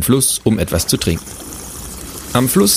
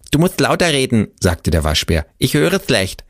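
high, lightly voiced raccoon; a raccoon that hears badly; friendly raccoon; 5 semitones higher than usual. Raccoon asks to speak up.

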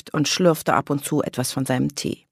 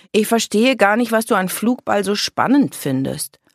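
lightly voiced girl, higher and louder; puzzled girl; 7 semitones higher, 5 dB louder than usual. A narrator's reading. Girl doubting her sister's favourite sport, puzzled. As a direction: question her enthusiasm with mild bafflement.

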